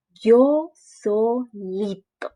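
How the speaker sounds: very slow proud declaration; proud boast. Acted. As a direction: boast to mom, dragging it out. Froggy presume. (orgulloso, muy lento)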